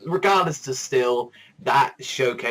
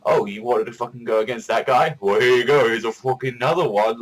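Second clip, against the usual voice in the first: louder, gleeful teasing taunt; mock taunt; 6 dB louder than usual. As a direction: taunt the heroes with a new foe.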